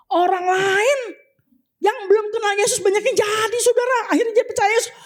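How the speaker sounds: high-pitched, insistent preaching; impassioned exhortation. Real, not acted. Preacher tells congregation others got their miracles, impassioned. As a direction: push it high with fervent insistence.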